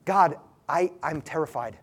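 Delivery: hushed admission of terror; sample prayer. Shown as a demonstration. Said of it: "That's what it looks like".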